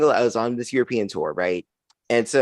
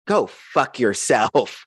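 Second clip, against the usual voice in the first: drawn-out, deliberate "Go fuck yourself"; slow put-down; much slower than usual. Retold or imitated. Comic retelling telling off the bartender, slow and deliberate. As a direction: lay each word down slowly.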